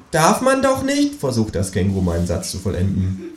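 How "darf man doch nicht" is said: high, slow kangaroo. Acted. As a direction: finish the sentence primly. Kangaroo finishing sentence.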